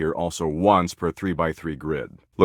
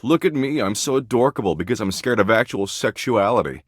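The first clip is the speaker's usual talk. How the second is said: mocking imitation; 3 semitones higher than usual. Mocking someone who acts adorkable to dodge sexuality, mocking imitation. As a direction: mimic a self-declared adorkable flirt, mockingly. Mocks how the listener acts.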